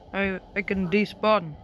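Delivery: loud try at an Australian accent; attempted Australian accent. Shown as a demonstration. Gamer practising an Australian accent on a game phrase, attempted Aussie. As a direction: have a go at Aussie, not quite landing it. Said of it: "can't do that Australian accent".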